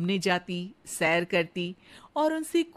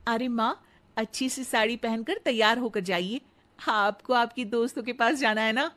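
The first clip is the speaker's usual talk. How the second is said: sweet daughter-in-law; 2 semitones higher than usual. Acted. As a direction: flatter the mother-in-law sweetly. Radha urges her.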